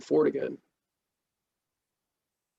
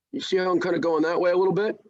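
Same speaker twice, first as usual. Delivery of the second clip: jaw pushed forward while talking; underbite; 2 semitones higher, faster than usual. Shown as a demonstration. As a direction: talk with the jaw jutted out. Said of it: "like Popeye smoking a corn cob".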